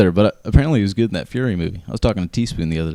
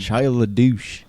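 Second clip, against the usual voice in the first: mocking; 4 semitones higher, much slower than usual. Mocking name for Shia.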